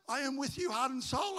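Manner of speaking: high, loud comic avowal; mock loyal pledge. Preacher playing the armor bearer answering Jonathan, mock loyal pledge.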